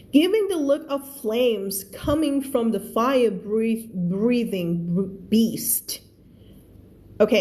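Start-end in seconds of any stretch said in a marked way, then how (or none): 0.1-5.9 very slow, careful reading; slow read-aloud. Shown as a demonstration. Teacher reading the story line to her class, very slow. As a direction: read it word by word for learners. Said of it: "teacher reads sentence slowly".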